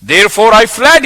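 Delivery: loud, indignant declaration; angry Jonah. Acted. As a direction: throw it back at God angrily. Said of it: "He's going mad at God now".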